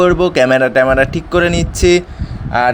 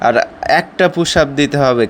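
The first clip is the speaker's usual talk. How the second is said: out of breath. Real, not acted. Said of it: "খুবই হাঁপিয়ে গিয়েছি".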